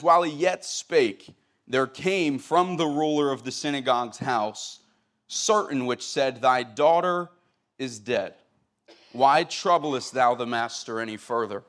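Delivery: steady Bible reading to the congregation; scripture reading. Acted. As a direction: read the King James text with reverence. Reads scripture aloud.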